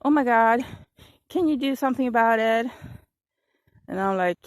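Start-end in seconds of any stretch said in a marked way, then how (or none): 0.0-2.7 alarmed. Retold or imitated. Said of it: "she was, like, terrified".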